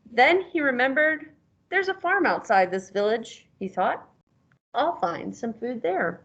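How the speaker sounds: storybook reading, the last line slowed; reading to a child. A narrator's reading. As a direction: read it aloud to a young pupil. Teacher reads picture book aloud.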